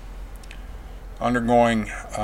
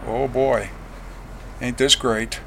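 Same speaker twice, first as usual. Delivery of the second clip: understated, unimpressed sarcasm; deadpan mock enthusiasm, recalling your own dismay; retold sarcasm; 4 dB quieter, slower than usual. Husband's unwilling reaction, retold.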